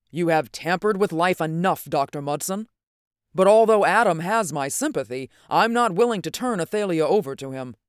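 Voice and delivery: mildly heated, rising to firm refusal; indignant protest. Acted. Northwood refuses to give up Athalia, mildly indignant.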